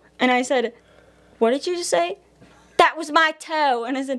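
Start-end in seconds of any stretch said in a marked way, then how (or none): 2.8-3.9 put-on high-pitched South African accent. Retelling what Wes said after the speaker stepped on his toe, imitating Wes's South African accent. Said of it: "He was from South Africa, and that's what he sounded like".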